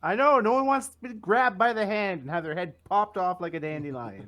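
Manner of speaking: high, loud, laughing through it. Real, not acted. Laughing over the joke.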